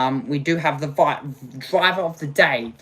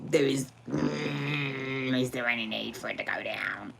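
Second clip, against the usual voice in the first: despairing whisper; 9 dB quieter than usual. Real, not acted. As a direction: plead under your breath.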